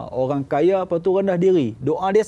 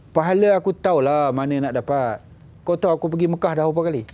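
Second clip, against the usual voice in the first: arrogant retort; 2 semitones higher, faster than usual. Retold or imitated. Rich man retorts arrogantly.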